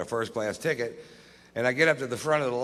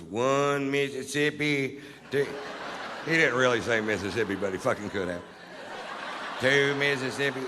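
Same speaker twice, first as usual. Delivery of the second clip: slow, drawn-out dim counting; slow counting guard; 2 semitones higher than usual. Retold or imitated. Guard counting the cash, a slow plodding mock count. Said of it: "he goes".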